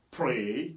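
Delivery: "Pray" with a long gliding "ey"; English AY sound. Shown as a demonstration. Teacher reading the next example, drawn-out AY. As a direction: stretch the vowel of "Pray". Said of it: "ça donne le son A".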